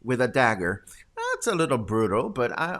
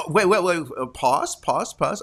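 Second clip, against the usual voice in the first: ordinary talk, nothing marked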